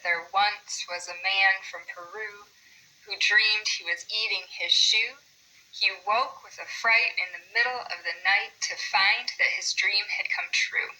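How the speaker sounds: limerick recited to a clear beat; bouncing da-da-DUM rhythm, stressed beats marked; metrical limerick reading. Shown as a demonstration. Teacher showing how it should sound, measured limerick recitation. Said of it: "it should sound like this".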